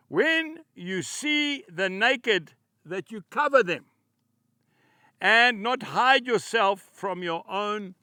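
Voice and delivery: slow, measured Bible reading with weighted key words; scripture reading. Acted. Preacher reading Isaiah on fasting to his listeners, solemn scripture reading. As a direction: proclaim each phrase deliberately, pausing between them. Reads Isaiah verses aloud to congregation.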